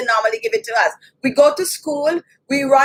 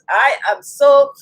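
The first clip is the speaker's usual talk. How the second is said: choked-up, drawn-out apology; slow down as real emotion wells up; tearful apology; getting emotional; 3 dB louder, slower than usual. Real, not acted. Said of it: "Why am I getting emotional?".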